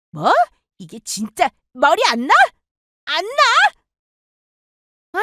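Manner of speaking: drawn-out high threat on 안 나; threatening sister. Acted. Sister threatening to pull her hair, drawn-out taunt. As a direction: dare her with a long stretched taunt. Sisters fighting over house.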